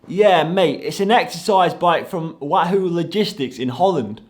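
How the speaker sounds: put-on Cockney delivery bloke; exaggerated Cockney phone voice; mock Cockney accent. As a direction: imitate a London caller in broad Cockney. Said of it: "who I've just mocked their voice".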